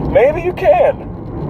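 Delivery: high, slow words through laughter; laughing. Real, not acted. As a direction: giggle the words out. Still laughing at own joke.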